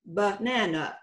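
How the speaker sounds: banana with schwas, buh-NAN-uh; pronunciation demo. Shown as a demonstration. Teacher showing schwas in banana, pronunciation demo. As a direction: say banana the everyday way, stress on the middle. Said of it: "is the way we would pronounce it".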